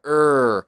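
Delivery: one loud er trapped in the throat; throaty er sound. Shown as a demonstration. Teacher demonstrating the burger vowel, throaty er. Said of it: "atrapado en la garganta".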